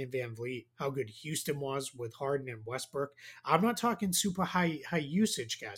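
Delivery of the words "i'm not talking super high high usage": slipping into a Boston accent. Real, not acted. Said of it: "My Boston accent came out there really bad".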